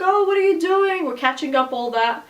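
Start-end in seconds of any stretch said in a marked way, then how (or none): 0.0-1.1 higher, breezy phone greeting; light, pitched-up sister impression; imitated chatty sister. Sister's cheerful phone greeting retold.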